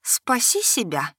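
slow, sly insect voice inside her head; lightly voiced venomous insect; insect whisper. A narrator's reading. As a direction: coax her like a poisonous spider. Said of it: "нашёптывал ... едкий голос насекомого".

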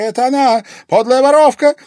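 piercing high, very loud scream of a name; shriek. A narrator's reading. Terrified lady to her husband, shrieking. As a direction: shriek for help. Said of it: "взвизгнула Вероника".

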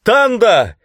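very high, loud cry of her name; horrified scream. A narrator's reading. Hero rushes toward fallen Tananda, horrified scream. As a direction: scream the name as she falls. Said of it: "закричал я".

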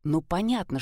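ordinary delivery, nothing marked

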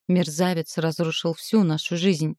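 plain reading voice

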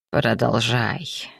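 low, slow, quiet command; slow low murmured order; half request, half order. A narrator's reading. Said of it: "то ли попросил, то ли приказал он".

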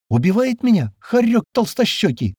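high-pitched, half-questioning exclamation. A narrator's reading. Girl reacting to news of her fate, half-questioning. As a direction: raise the pitch, half asking. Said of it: "полувопросительно произнесла она".

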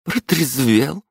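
slow rising stern question. Acted. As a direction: ask it pointedly. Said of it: "спросила мама". (строгий вопрос)

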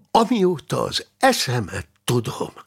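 excited. Acted. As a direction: launch in with excitement. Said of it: "kezdte izgatottan csillogó szemmel".

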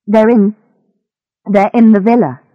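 hesitant false start, then blurted restart; mildly frightened confession; nervous stammer. Acted. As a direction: give it up nervously, repeating yourself. Captive confesses under threat.

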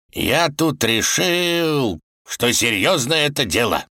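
very slow, weighty opening; tsar starting from afar. A narrator's reading. The tsar carefully approaches the Wolf, slow and weighty. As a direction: stretch the words out, feeling your way. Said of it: "начал царь издалека".

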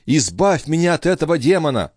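put-on high, desperate plea of a terrified girl; high pleading female voice; frightened young woman. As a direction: beg to be freed from the demon.

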